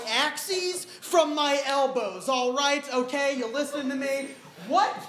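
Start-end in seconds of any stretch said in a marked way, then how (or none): 4.7-5.0 high, loud, slow despairing cry; hammed-up panic. Comic stranded onstage yelling for help, loud and slow. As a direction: wail to the crowd in mock desperation.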